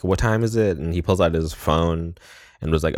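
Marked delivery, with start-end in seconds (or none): 0.0-0.8 high, alarmed repeat of the question; panicked. Retold or imitated. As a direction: ask it again in rising panic. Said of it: "and she's like".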